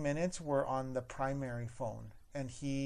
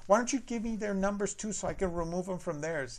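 sassy manager; 6 semitones higher, 4 dB louder than usual. Retold or imitated. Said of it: "He's like".

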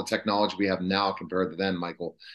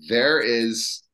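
puzzled fans; 4 semitones higher, much slower than usual. Retold or imitated. Fans reacting, quoted puzzled.

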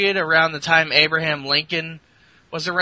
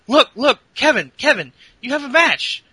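nervous interviewer; 9 semitones higher, 5 dB louder than usual. Retold or imitated. Interviewer nagging Kevin Owens.

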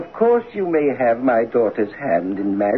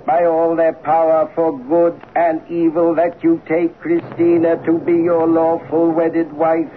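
solemn oath swearing; 3 semitones higher than usual. Acted. Father administers eerie oath.

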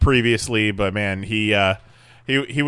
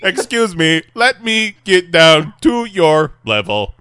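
higher, measured robot voice; stilted, raised machine voice; friendly robot imitation; 5 semitones higher, 3 dB louder than usual. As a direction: play a polite robot, word by word. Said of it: "we met the other Promobot".

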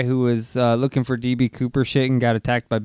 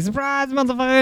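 high, excited mock exclamation; mock surprise reveal; 11 semitones higher, 3 dB louder than usual. Host imagining the co-host revealing a surprise guest, mock excited. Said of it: "you're gonna be like".

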